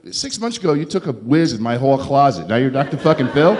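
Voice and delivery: mock outrage at his sober buddy; incredulous retort. Comic telling his buddy off in disbelief.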